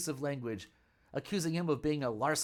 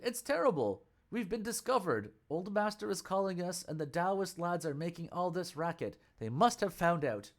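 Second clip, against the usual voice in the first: higher, lightly voiced alarm; a caught disciple panicking; 3 semitones higher than usual. Sha Monk panics.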